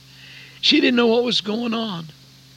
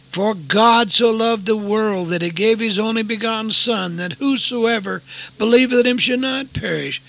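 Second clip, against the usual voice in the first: scripture recitation; 3 semitones higher, 4 dB louder than usual. Retold or imitated. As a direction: proclaim the Bible verse with force. Reciting remembered Bible verse, preaching.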